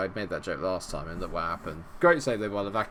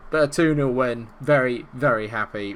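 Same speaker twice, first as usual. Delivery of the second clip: happy cheer; 4 semitones higher, 10 dB louder than usual. Real, not acted. Celebrating the win.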